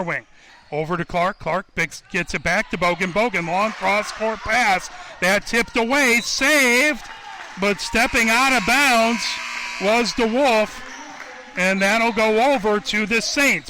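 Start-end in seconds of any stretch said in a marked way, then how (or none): 5.2-13.7 excited call. Real, not acted. Scramble for loose ball.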